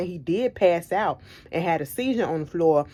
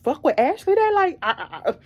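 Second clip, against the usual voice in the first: higher, louder exasperated outburst; 9 semitones higher, 3 dB louder than usual. Retold or imitated. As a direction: throw your hands up, you can't take it. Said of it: "I said".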